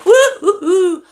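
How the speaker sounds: laughing, high excited cheer; excited woo-hoo. Real, not acted. Cheering to viewers about putting up Christmas decorations, giddy whoop.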